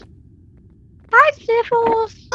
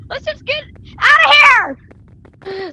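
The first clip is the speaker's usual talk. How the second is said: panicked cry; 3 semitones higher, slower than usual. Real, not acted. Fleeing in panic.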